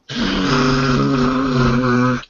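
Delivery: a feeble, silly horn blurt imitated with a laugh; embarrassing horn noise. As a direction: make a sad little horn sound. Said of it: "It's just like".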